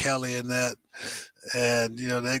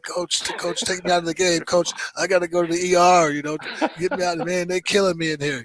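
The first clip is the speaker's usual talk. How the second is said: whiny hurt player; 4 semitones higher than usual. Retold or imitated. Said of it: "he'd grab his forehead and be like".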